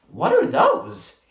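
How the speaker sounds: high, slow, wondering question; curious surprise. A narrator's reading. April finds the secret paper dolls, high surprised question. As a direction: pounce on the discovery with curiosity.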